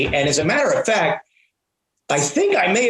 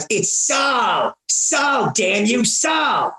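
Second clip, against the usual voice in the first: higher angry shouts of Sal; getting mad; 5 semitones higher, much slower than usual. Retold or imitated. Prank caller losing patience with the office girls, angry shout. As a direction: yell the name in rising frustration. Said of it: "I actually started getting mad".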